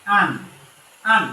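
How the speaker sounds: আন said with a clear held n at the end; nun sakin sound. Shown as a demonstration. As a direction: say আন ending on a firm n sound. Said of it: "Hamza নুন জবর".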